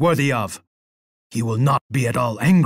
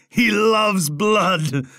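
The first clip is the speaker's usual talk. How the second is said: slow, higher, relishing every word; bloodthirsty glee; 6 semitones higher, much slower than usual. Acted. Emperor gloating over bloodshed, slow manic relish. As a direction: savour the word blood like a madman.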